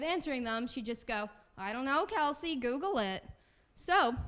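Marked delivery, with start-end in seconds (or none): 1.6-3.2 louder, brush-off New Jersey mom; mom's New Jersey accent. Retold or imitated. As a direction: imitate a Jersey mother dismissing a question. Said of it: "she has the very strong accent".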